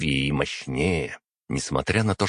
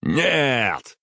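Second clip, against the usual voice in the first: shouting to stop the acid; 8 semitones higher than usual. Acted. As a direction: cry out to stop the throw. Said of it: "крикнул я".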